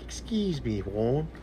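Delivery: mock-English accent on a polite question; put-on English voice; imitated English accent. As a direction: mimic an English accent asking directions. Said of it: "He said it like that".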